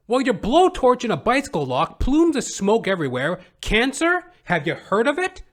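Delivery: mock indignant tirade at the thief; exasperated scolding. Narrator scolding thief on sidewalk.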